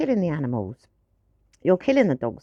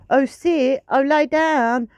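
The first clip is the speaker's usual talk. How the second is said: higher, louder pleading commands; fussing singsong; 5 semitones higher, 3 dB louder, slower than usual. Retold or imitated. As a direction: nag the dog sweetly. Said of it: "I don't keep going".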